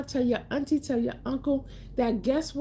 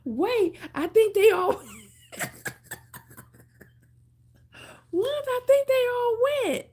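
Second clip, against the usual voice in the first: high, laughing, louder; laughing disbelief; 13 semitones higher, 4 dB louder than usual. Real, not acted. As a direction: laugh through the words in disbelief. Laughing at viewer count dropping.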